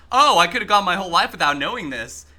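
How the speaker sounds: smartass put-down of a useless fact; mock it, dripping with sarcasm; sarcastic. Shown as a demonstration. Streamer demos his smartass version for chat, sarcastic. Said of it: "a sarcastic".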